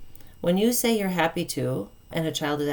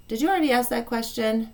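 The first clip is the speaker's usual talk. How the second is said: calm question; 6 semitones higher than usual. Shown as a demonstration. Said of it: "All you have to do is say".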